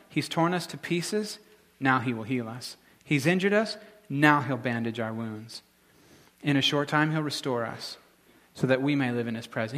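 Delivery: lifted, assured reading of the same verses; totally confident. Shown as a demonstration. Preacher showing how confidently Hosea speaks, assured and lifted. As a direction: say it like you're sure God will heal. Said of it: "He's totally confident".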